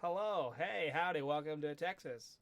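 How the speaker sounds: slow Texan cowboy welcome. Shown as a demonstration. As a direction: put on a drawled Texas accent. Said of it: "I can be a cowboy".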